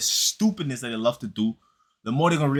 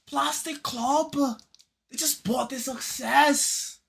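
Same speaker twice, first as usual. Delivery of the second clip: mock dismissive pundit; 10 semitones higher, slower than usual. Mocking pundits' dismissive line.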